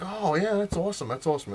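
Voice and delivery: high-pitched, automatic mock enthusiasm; inattentive interviewer's enthusiasm. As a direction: imitate an interviewer agreeing without listening. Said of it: "not paying attention".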